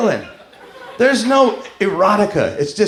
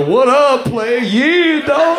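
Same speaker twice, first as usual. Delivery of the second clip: mock street slang; 5 semitones higher, much slower than usual. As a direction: ham up the cool greeting. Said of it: "we get as black as we can".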